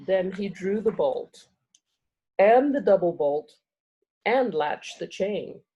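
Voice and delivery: measured storybook reading with dramatic pauses; story narration. A narrator's reading. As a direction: read the chapter aloud, savoring key words. Reads chapter aloud to audience.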